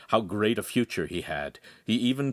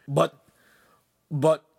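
higher, louder stammered objection; protest, lost for words; rejected suitor faltering; stunned protest; 8 semitones higher, 6 dB louder than usual. A narrator's reading.

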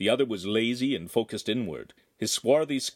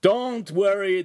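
loud, slow jeering call; laughing shout; 11 semitones higher, 6 dB louder, slower than usual. Acted. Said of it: "the oaf laughed as he shouted".

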